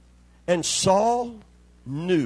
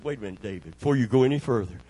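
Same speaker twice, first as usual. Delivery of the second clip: warning; 6 semitones lower than usual. Retold or imitated. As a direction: caution David in a hushed, low voice. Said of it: "they told him".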